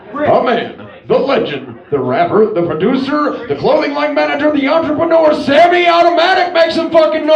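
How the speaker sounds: building stage introduction; hype announcer. Real, not acted. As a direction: announce the act to rouse the crowd. Host introduces the next act.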